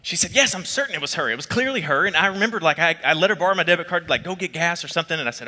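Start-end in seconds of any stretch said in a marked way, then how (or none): 0.3-2.1 indignant insistence. Retold or imitated. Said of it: "I mean, she was angry".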